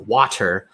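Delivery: "water" with a hard, released T; crisp T in the middle of "water"; hard consonants. Shown as a demonstration. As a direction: say "water" as "wah-ter" for emphasis. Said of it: "pronounce them with those hard".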